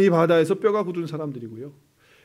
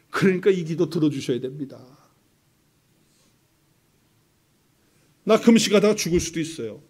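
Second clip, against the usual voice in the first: mock threat. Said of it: "이렇게 협박하는 거예요".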